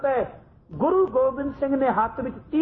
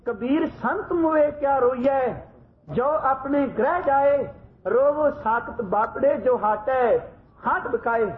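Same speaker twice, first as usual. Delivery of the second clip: slow, grave reading of scripture; a solemn, measured verse; solemn recitation. Retold or imitated. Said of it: "ਗੰਭੀਰ ਆਵਾਜ਼ ਵਿੱਚ ਪੜ੍ਹਦੇ ਨੇ".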